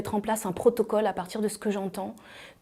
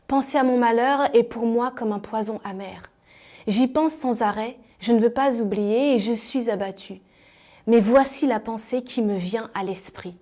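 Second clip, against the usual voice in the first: measured, deliberate Bible reading; scripture reading. Acted. Believer reciting a favourite verse of hope, measured scripture reading. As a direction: read the verses out with pauses between phrases.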